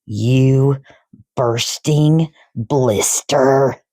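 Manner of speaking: slow, drawn-out mock yell; yelled insult. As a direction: spit the insult slowly. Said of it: "yelled the Trunchbull".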